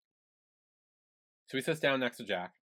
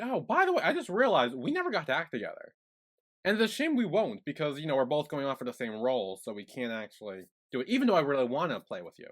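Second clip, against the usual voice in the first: sugary fake-sweet Jack. Voicing Jack's fake sweetness.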